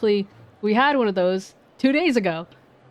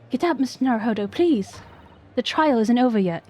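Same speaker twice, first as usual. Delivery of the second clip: urgent higher voice; 4 semitones higher, 3 dB louder than usual. Acted. Voices a game character's plea.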